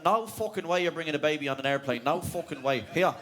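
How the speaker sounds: put-on a rough Dublin accent. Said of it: "Immediately Dublin".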